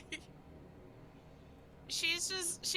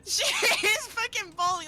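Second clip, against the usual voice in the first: crying; 6 dB louder than usual. Real, not acted. Player crying about her character.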